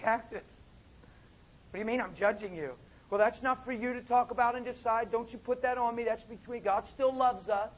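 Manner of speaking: a hammed-up huffy believer pushing back; mock defensive churchgoer. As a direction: play the indignant member who won't be told. Congregant defending sin, preacher voicing.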